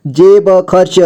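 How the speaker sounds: जेब खर्च with ब given its own vowel; syllable by syllable. Shown as a demonstration. Teacher breaking down जेब खर्च for learners, syllable by syllable. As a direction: sound out जेब खर्च piece by piece. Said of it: "जोड़ जोड़ करके".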